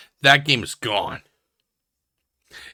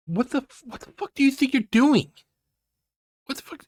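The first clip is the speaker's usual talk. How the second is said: shrill angry yell; 11 semitones higher, faster than usual. Acted. Yelling at the streamer's choice.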